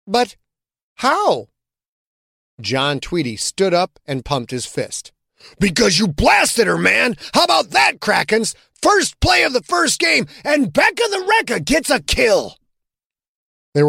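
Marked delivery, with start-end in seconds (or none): 0.1-1.5 disbelief. A narrator's reading. Rebecca asks in disbelief. 5.6-12.6 loud, high, whooping celebration; cheering teammate. A narrator's reading. John cheers Rebecca's kill to the locker room, loud and whooping.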